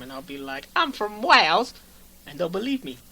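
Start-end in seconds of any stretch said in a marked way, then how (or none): 0.8-1.7 high, loud mock British accent; put-on British accent. Host pretending to be from Wales, mock British accent. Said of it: "I can go to Britain right now".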